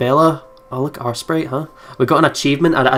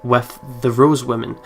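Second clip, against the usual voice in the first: even, measured narrator read; story narration. Acted. Game player reading the narration text to viewers, in a calm narrator voice. Reads the game's narration aloud.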